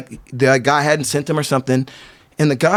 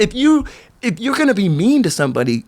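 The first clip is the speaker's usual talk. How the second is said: higher-pitched indignant appeal; impassioned rebuke; 4 semitones higher than usual. Retold or imitated. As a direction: press the moral point. Impassioned retold rebuke of mean skateboarders.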